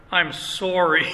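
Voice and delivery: "sorry" with a real Canadian vowel; Canadian accent. Real, not acted. Preacher apologizing to congregation for his vowel, Canadian accent. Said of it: "about the Canadian accent".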